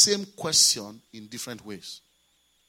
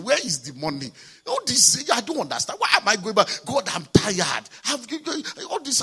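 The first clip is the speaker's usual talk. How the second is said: the pastor at the airport protesting to God, voice climbing in frustration; frustrated complaint to God. Retold or imitated. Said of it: "frustrated again".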